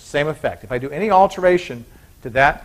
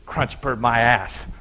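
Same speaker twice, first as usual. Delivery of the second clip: slow, low, grumbling punchline; grumpy husband; 4 semitones lower, 4 dB quieter, slower than usual. Acted. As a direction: drag it out like a sour husband.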